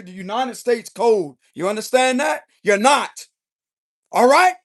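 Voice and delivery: irritated telling-off with punched key words. Acted. Tarot reader voicing the King of Swords' warning, irritated. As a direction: lay down the law, fed up. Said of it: "but he's irritated".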